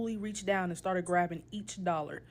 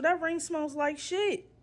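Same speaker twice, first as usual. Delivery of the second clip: blunt; 8 semitones higher, slower than usual. Retold or imitated. Telling Marshall off.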